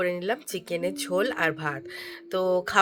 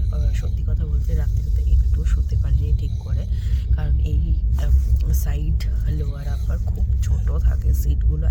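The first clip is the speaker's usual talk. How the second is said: speaking softly. Real, not acted. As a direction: keep it down so nobody sleeping nearby wakes. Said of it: "আমি এখনো আস্তে আস্তে কথা বলছি". (ঘুমন্ত লোকের পাশে আস্তে, চাপা গলায়)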